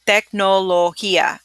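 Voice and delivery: "Tecnología" slowly, each syllable clear; slow careful take. Shown as a demonstration. Teacher showing the slow version first, careful. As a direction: model it slowly. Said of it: "when you say it fast".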